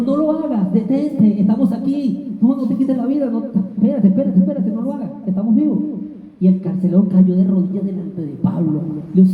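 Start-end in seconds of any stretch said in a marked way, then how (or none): 0.0-5.8 urgent pleading Paul. Retold or imitated. Paul stops jailer's suicide.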